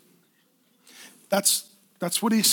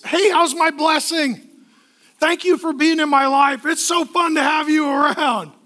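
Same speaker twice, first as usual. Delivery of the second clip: affectionate parent; 4 semitones higher than usual. Retold or imitated. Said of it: "I always give them a kiss".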